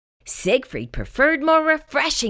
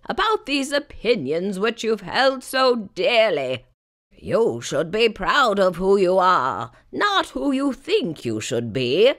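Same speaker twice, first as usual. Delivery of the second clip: a hint of an old elder lecturing; lightly voiced wise elder, slowing at the end; eldest fart's speech; 3 semitones lower than usual. Eldest fart addressing Siegfried, mildly stern elder. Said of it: "ripped into a rousing rant".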